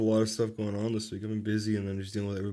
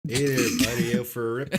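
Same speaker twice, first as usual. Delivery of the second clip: put-on Canadian accent. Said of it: "the Canadian accent".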